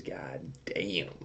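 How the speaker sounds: whispered aside. Real, not acted. Reacting to three batteries.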